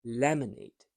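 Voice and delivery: "Lemonade" with a soft, unstressed middle vowel; unstressed schwa. Shown as a demonstration. Teacher gives an example of schwa, "Lemonade" with reduced middle. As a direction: keep the middle of "Lemonade" almost invisible. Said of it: "It's a soft sound, it's unstressed".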